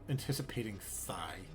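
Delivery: a breathy, hushed read of the name; whisper. Acted. Reading a strange animal name aloud in a hushed whisper. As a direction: hush it like a secret.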